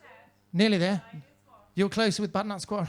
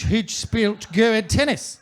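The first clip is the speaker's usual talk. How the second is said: slow Afrikaans example, carefully pronounced; measured Afrikaans pronunciation; Afrikaans sample sentence. Shown as a demonstration. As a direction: demonstrate the phrase in an Afrikaans accent. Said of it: "Go ahead is also Afrikaans".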